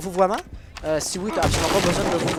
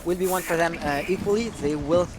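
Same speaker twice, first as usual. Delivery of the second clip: measured esports commentary, searching for words; English play-by-play. Acted. French caster calling a round in English for the chat, measured. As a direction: narrate the round calmly, thinking aloud.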